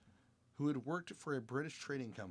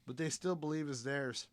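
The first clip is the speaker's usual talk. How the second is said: loud, higher mock Australian-Scottish accent; hammy Australian-Scottish explorer; 4 semitones higher, 10 dB louder than usual. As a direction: keep the wandering Aussie-Scots voice going. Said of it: "you got Australian and mixed with Scottish".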